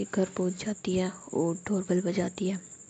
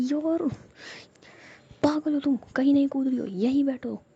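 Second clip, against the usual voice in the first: louder, higher exasperated scolding; scolding friend; 6 semitones higher, 4 dB louder than usual. A narrator's reading. Girl scolds her friend to sit back down, exasperated. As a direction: snap at a reckless friend.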